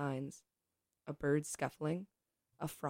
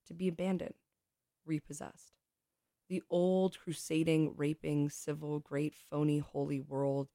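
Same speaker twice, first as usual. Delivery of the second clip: poetry reading. Acted. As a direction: let each image land, reading to a room. Reads Adrienne Rich poem.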